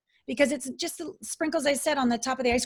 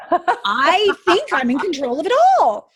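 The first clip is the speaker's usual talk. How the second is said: mock defiant self; 3 semitones higher, 6 dB louder than usual. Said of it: "I'm like".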